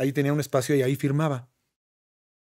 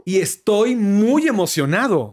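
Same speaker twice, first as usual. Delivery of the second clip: louder, slow, stretched excitement; showing off an excited voice; acted excitement; 4 semitones higher, 5 dB louder, slower than usual. Shown as a demonstration. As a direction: play up being thrilled. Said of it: "puedo actuar al muy emocionado".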